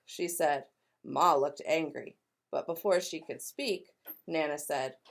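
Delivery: lively read-aloud with voiced characters; storybook narration. A narrator's reading. Teacher reading to kindergartners, animated storytelling. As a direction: tell it like a picture book for kids.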